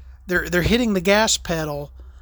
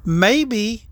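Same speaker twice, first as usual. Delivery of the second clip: mock clueless self; 8 semitones higher, slower than usual. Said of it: "And I'm like".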